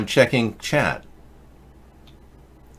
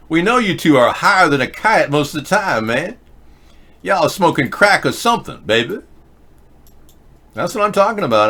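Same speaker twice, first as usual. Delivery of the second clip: caricatured black male voice; 7 semitones higher than usual. Pretend. Streamer mocking Obama in a caricatured black male voice. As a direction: ham up a crude caricature, pitched up. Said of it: "your black male impression".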